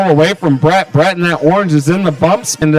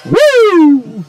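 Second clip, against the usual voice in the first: wrestling voice; 12 semitones higher than usual. Retold or imitated. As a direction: belt it out like a pro wrestler. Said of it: "That's my best, uh, wrestling voice I got there".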